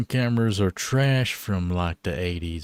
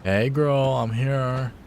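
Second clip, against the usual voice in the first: put-on higher whiny girly voice; 4 semitones higher, slower than usual. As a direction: whine it out playfully. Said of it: "I love using whiny voices".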